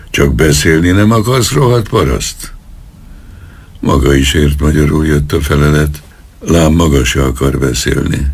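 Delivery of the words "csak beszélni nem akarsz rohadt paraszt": angry insult. Acted. Policeman insults the old peasant, rising much higher in anger. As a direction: pitch climbing much higher into a sneering insult. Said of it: "csattant fel az egyenruhás".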